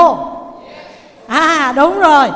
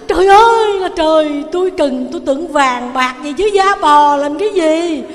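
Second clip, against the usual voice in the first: wailing cry; 4 dB louder than usual. Acted. Beggar wails at getting only a cowhide, loud crying. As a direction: cry out to heaven in dismay. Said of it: "Ông khóc nữa".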